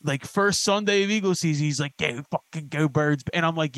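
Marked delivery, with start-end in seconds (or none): 2.0-3.2 slow, lightly hammed Philly fan; imitating a suburban kid faking Philly; mock corny Philly bro. Philly guy mocking a TikTok kid's corny Eagles cheer. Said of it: "Philly content".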